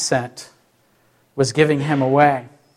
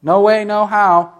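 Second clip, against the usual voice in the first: slow, higher-pitched refusal; mock rough denial; 5 semitones higher, 3 dB louder than usual. Peter denying Jesus with curses, slow mock vehemence. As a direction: draw out each word in acted defiance. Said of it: "rough language".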